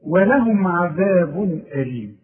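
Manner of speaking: slow measured recitation. Shown as a demonstration. Teacher reciting the verse for pupils. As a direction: recite the phrase slowly. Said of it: "recites verse slowly".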